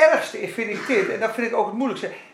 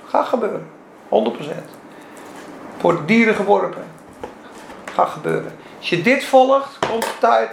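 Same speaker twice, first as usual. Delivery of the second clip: ordinary talk, nothing marked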